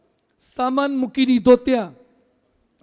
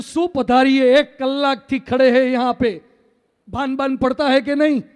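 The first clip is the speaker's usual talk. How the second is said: louder mock-indignant comeback; indignant retort; 5 dB louder than usual. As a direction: tell off the host who kept you waiting, half in earnest. Retorting to host after hour's wait. (અકળાઈને ઠપકો)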